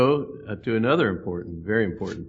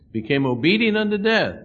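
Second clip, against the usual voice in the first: preaching climax; 10 semitones higher, 7 dB louder than usual. Acted. Sermon climax on the cross.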